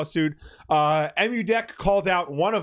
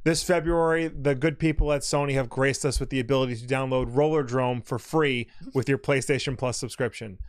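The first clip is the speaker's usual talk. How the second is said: mock presidential address to the nation; solemn, slow statesman voice, lightly done; slow gravelly statesman. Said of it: "I'd like to address the nation".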